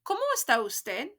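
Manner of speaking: "¿Cómo está usted?" with a rising question tune; repeated model for the class; model for repeating. Shown as a demonstration. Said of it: "Repeat after me".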